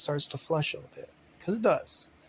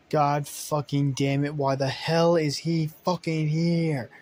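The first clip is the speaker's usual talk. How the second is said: angry; 2 semitones higher, 4 dB louder, slower than usual. Acted. Rex angry at unwanted guest.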